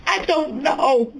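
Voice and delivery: dazed, lost son. Retold or imitated. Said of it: "He said".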